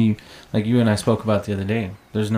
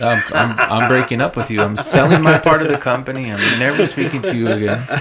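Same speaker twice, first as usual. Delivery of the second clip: louder, laughing fake ultimatum; hammed-up threat to leave, laughing through it; mock breakup; 6 dB louder than usual. To a friend joking about the demon, a louder laughing mock ultimatum.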